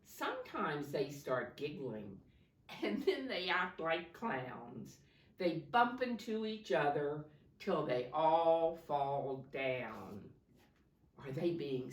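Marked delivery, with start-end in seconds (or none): 0.0-10.2 rhythmic picture-book read-aloud; reading to children. Acted. Teacher reading a snow story to her class, lilting. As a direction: lilt the rhyming verse for the class.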